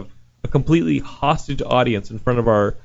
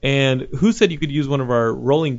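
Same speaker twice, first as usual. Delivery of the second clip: 1 mock angry worker. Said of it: "and is like".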